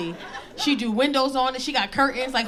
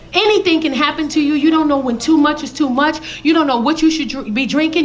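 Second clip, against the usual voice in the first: stern lecture; 5 dB louder than usual. Retold or imitated. Mother lectures daughter firmly.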